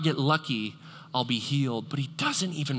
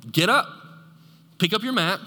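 louder, higher command; a firm call to rise; commanding Jesus; 6 semitones higher, 3 dB louder than usual. Retold or imitated. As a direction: order him up with authority. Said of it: "Then Jesus said to him".

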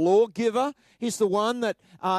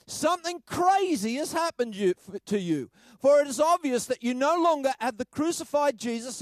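higher, exasperated preaching read; raised, insistent rebuke to the Galatians; frustrated scolding read; 4 semitones higher than usual. Acted. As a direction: press every question like a frustrated apostle. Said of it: "That sort of captures it".

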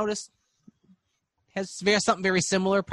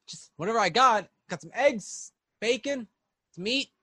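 gnome voice; 6 semitones higher than usual. Acted. Gnome cook lists food.

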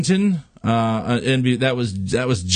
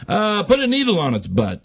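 much higher, mischievous; giddy God; 9 semitones higher than usual. Acted. God gleefully designing the bee, high voice. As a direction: sneak the idea in gleefully.

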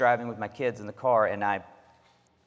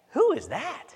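put-on child's voice. Dad voicing his young son.

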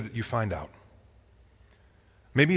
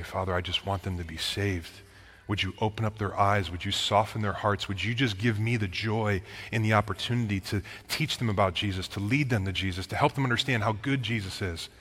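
retold humble prayer; 4 semitones lower, 5 dB quieter than usual. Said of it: "get on my knees and say".

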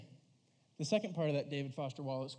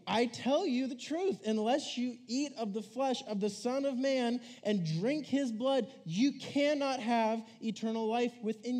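scripture reading; 3 semitones higher than usual. Acted. Youth pastor reading John's verses to the room, solemn reading. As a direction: read the verses as a proclamation. Reads Bible verses aloud.

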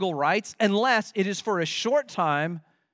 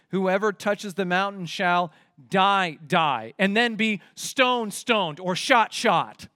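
"die, die" slow, each word struck separately; emphatic doubling; slower than usual. Shown as a demonstration. Preacher showing the doubled Hebrew words, emphatic and slow. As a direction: hammer each repeat in "die, die", "stone, stoned", "shot, shot". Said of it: "Actually, it's emphatic".

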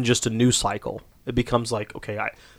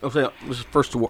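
talking around a Skittle; candy stuck in mouth; mouth full. Real, not acted. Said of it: "Skittle stuck in my mouth".

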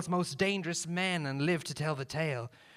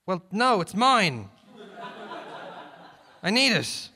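shouting; 5 semitones higher, 4 dB louder than usual. Acted. Shouted exchange.

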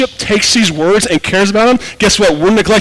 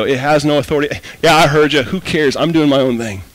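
dismissive; 5 semitones lower than usual. Acted. Voices a dismissive listener's attitude.

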